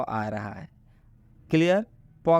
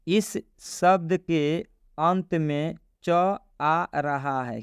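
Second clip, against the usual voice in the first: slow, measured read of a written rule; reading a rule aloud; much slower than usual. Shown as a demonstration. Teacher reads the rule on screen to learners, slow read-aloud. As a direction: spell the rule out slowly, phrase by phrase.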